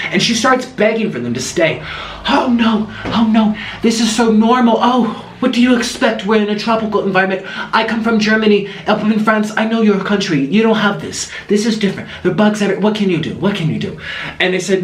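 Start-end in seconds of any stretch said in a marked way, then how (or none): 2.3-14.0 pleading lady impression. German lady begs guests stay.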